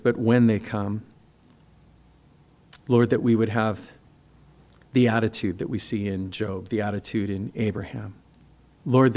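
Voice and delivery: earnest pastor's closing prayer, unhurried. Acted. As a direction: pray it sincerely over the congregation.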